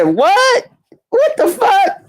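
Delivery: shocked. Retold or imitated. Hearing the friend got toothless pictures, shouted shock. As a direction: yelp it in sheer disbelief. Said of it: "I said".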